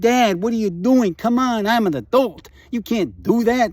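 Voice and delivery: imitating exasperated daughter. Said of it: "She said".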